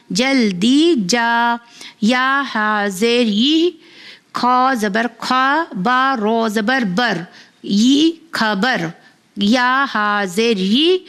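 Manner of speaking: slow, clear letter-by-letter spelling, then blending the word; patient teacher reading a primer aloud; phonics spelling drill. Acted. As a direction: spell each syllable out for a child, then join them.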